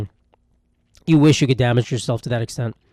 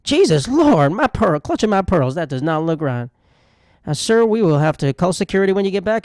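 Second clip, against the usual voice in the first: stereotyped gay Southern flight attendant. Acted. Flight attendant appalled at an injured passenger, hammed-up Southern camp voice. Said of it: "my gay flight attendant is just a Southern black man".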